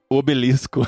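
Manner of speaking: obelisco said in place of basilisco; mistaken word. Shown as a demonstration. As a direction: own up to the old slip, saying "obelisco". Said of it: "Eu falava outra, outra coisa".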